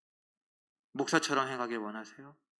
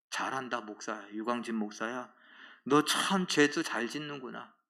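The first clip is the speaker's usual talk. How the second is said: sarcastic praise; 3 semitones lower, 3 dB quieter than usual. Acted. God sarcastically praising the sinning pastor.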